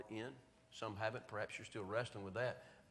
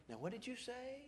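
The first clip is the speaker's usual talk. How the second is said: much softer, higher, leaning in; preacher stooping to ask a little girl, softly; gentle asking; 13 semitones higher, 8 dB quieter than usual. Retold or imitated. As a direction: coax it out of a small child.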